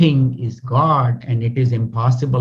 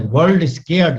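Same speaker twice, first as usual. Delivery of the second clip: louder and higher, called out to everyone; loudly; 5 semitones higher, 3 dB louder than usual. Shown as a demonstration. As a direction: announce it loudly to the world.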